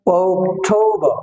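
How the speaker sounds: অক্টোবর slowly as "ouk-thou-ba"; silent R. Shown as a demonstration. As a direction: draw out অক্টোবর, no R at the end. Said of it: "এই রটা উচ্চারণ হবে না".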